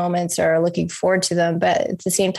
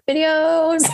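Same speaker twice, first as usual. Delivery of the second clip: high, bright echo of advice; mimicking the stranger; 9 semitones higher than usual. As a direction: quote it like a fond reminder. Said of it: "I'm always like".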